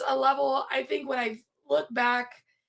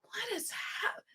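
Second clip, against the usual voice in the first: stunned disbelief; 8 semitones higher, much slower than usual. Retold or imitated. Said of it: "I'm just like".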